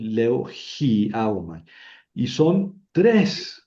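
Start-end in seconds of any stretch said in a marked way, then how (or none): 0.5-1.6 "hiaomai" begun with an aspirated, drawn-out hi; rough breathing. Shown as a demonstration. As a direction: aspirate the start of "hiaomai", then stress the a. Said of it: "rudo, por eso leo".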